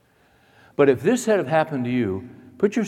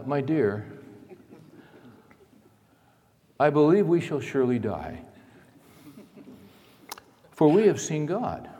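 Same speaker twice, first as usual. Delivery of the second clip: measured, unhurried reading with long pauses; calm and collected. Acted. Preacher voices Manoah calmly telling his wife they will die, calm and collected. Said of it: "in a very calm and collected voice".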